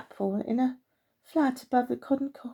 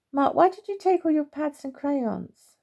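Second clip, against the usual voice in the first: put-on higher, louder boy's puzzled question; a brother demanding an answer; 6 semitones higher, 4 dB louder than usual.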